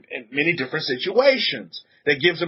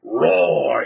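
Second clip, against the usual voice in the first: child's mock roar. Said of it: "He goes".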